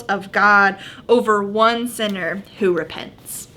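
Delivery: measured Bible reading voice; scripture reading. Acted. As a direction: read the passage clearly to the group. Reads Luke fifteen aloud.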